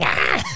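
short half-hearted shriek; imitated startled scream; mock scream. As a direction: yelp as if finding something horrible. Voicing woman finding severed head.

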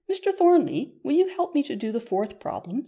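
high, loud call settling a little; eager appeal. A narrator's reading. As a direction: call out for his help, pitched high. Myra calls on Mister Thornley for help.

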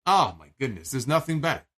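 ordinary talk

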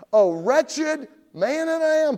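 loud, high, drawn-out lament; Paul's anguished cry. Acted. Preacher voices Paul lamenting his own sin, crying out. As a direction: wail it out in despair. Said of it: "Paul says".

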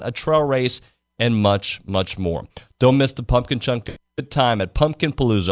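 upbeat radio ad read. Acted. Host reads a pumpkin festival promo, ad read. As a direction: sell the fall festival to listeners.

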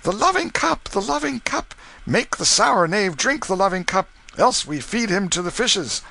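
very high rowdy chant; revellers crying out. Acted. Drunken revellers taunting Canty, high and raucous. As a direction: egg him on like a rowdy crowd. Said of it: "They cried out".

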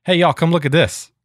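mild retold call to the kids. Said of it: "I yelled at my kids".

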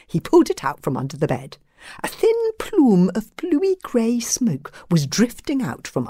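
expressive storybook reading; story narration. A narrator's reading. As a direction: read aloud to children, savouring the details.

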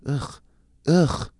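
short effortful "ugh"; frustrated grunt. Real, not acted. Struggling with the broken lighter, frustrated grunts. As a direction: grunt in disgust at a stuck gadget.

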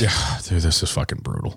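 hoarse, almost voiceless rasp; lost voice, barely a whisper; raspy whisper. Real, not acted. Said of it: "I apologize for my voice".

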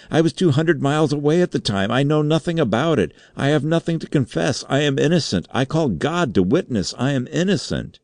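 very high, wailing protest; helpless terror. A narrator's reading. Undersecretary denying the charge to the board, terrified. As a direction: plead innocence in desperate panic. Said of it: "in an agony of helpless terror".

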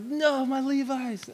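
high, slow, hammed-up wail; mock lament. Kid watching paramedics cut his Levi's, mock lament. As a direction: wail in mock grief over the jeans.

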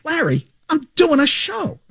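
high, slow, incredulous protest; slow high-pitched "I'm on the air" whine; exasperated. Retold or imitated. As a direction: plead with him to stop, drawn out in disbelief. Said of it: "I'm like".

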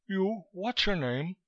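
high-pitched, brusque foreign interrogator; wheezy fat man, abrupt; Koitska, brusque. A narrator's reading. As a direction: question him in a high wheezy voice. Fat Koitska questions Chandler.

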